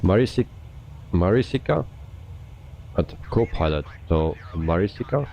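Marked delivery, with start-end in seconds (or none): 0.0-1.9 unsure attempt at the name "Marisica", higher at the end; tentative pronunciation. Shown as a demonstration. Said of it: "Do I need to pronounce that". 4.6-5.3 unsure "Marisica", lifting at the end; tentative pronunciation. Shown as a demonstration. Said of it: "pronounce I that correct".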